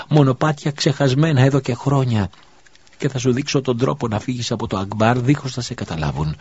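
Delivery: a desperate widow offering secret paths to escape; pleading widow. Acted. Widow begs the prophet to save her son, urgently.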